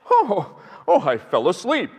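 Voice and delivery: startled "oh" of a dozing professor, lightly acted; lecturer waking up. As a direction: imitate someone jolting awake mid-lecture. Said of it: "he kind of shook himself a little bit".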